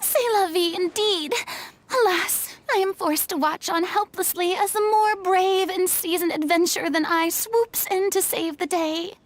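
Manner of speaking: melodramatic sigh of helplessness, hammed up; theatrical lament. Furina to her companions, feigning tragic helplessness in a hammy lament. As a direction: play the tragic damsel, grandly.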